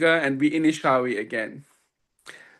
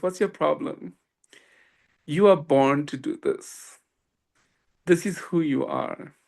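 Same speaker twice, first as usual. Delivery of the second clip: gentle guru. Retold or imitated. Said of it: "said something so beautiful to me".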